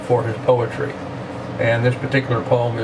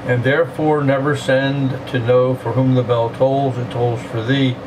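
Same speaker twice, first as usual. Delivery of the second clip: poem reading. Acted. Quotes the poem again.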